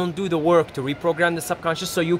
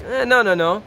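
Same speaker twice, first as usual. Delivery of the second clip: mock hesitant refusal; 4 semitones higher than usual. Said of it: "you're like".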